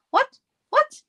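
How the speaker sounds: sudden high startled what; high-pitched surprised exclamation. Real, not acted. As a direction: caught off guard by a comment. Reacting to viewer chat surprise.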